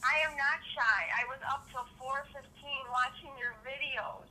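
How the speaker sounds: rough, gruff morning voice; hoarse from staying up late. Real, not acted. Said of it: "how rough and gruff my voice sounds".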